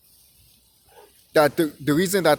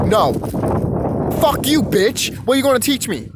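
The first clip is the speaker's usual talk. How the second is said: mock defiant outburst; 3 semitones higher than usual. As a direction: play the scornful student telling the teacher off. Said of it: "be like".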